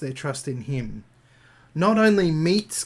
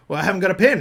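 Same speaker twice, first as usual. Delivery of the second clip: quoting DiCaprio; 5 semitones higher, 6 dB louder, much faster than usual. Retold or imitated. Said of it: "and Leonardo DiCaprio goes".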